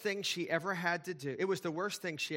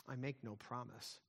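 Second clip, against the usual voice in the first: lion speaking; 3 semitones lower, 9 dB quieter than usual. Acted. Aslan voiced in read story.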